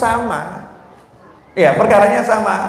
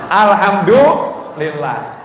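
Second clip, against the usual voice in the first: grateful; much slower than usual. Shown as a demonstration. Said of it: "mestinya ngucap apa?".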